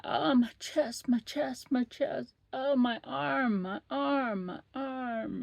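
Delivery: moaning patient. Retold or imitated. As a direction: ham up fake chest pain. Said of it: "she's like".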